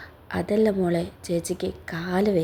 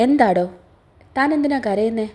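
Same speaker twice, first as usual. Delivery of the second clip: gruff; 3 semitones higher, 4 dB louder than usual. Acted. Husband confronts crying wife.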